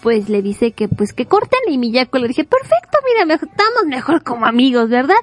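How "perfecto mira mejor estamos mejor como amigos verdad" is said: mock cheerful. Miyako answers the breakup.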